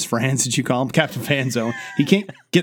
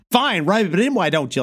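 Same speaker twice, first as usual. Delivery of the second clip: sulky mock retort; 7 semitones higher than usual. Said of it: "and he's like".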